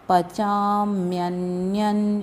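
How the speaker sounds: पचाम्यन्यन very slow, with ny in the last syllables; palatal nasal. Shown as a demonstration. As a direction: draw out पचाम्यन्यन, sounding the nasal as "nya". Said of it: "ये य का उच्चारण आना चाहिए".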